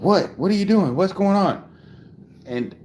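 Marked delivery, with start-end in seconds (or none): 0.0-1.6 higher-pitched mock exasperation; retold exasperated reply. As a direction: call back to the kids, high and put-upon. Acting out his reply to kids.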